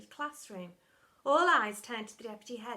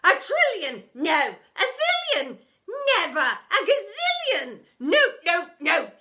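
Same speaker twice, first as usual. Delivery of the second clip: high, loud, alternating yells; frantic self-argument; 9 semitones higher, 14 dB louder, slower than usual. A narrator's reading. Deputy arguing with herself, loud and high. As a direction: bicker with yourself faster.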